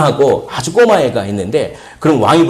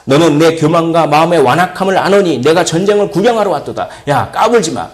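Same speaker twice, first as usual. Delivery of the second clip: mildly worked-up retold telling-off; a touch of big-brother indignation; acted angry rebuke; 3 semitones higher than usual. Eldest brother accusing the youngest of coming to watch, mildly angry rebuke. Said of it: "화를 내면서 그렇게".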